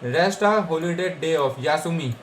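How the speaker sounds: Rest a holiday day of यासुमी read out slowly word by word; slow dictation. Shown as a demonstration. Teacher reading the book entry for students, slow. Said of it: "जैसा अपन पीछे ... आया था ना".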